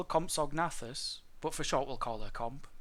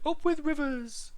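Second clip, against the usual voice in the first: high duckbill dinosaur hoot; happy piping cheer; 13 semitones higher, 5 dB louder than usual. A narrator's reading. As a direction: hoot it out with delight, far up in pitch. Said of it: "they hooted".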